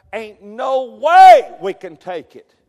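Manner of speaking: a hint of a defeatist doubter; doubting spy. Doubting spy telling Israel they can't win, mild despair. Spies' doubting report, acted.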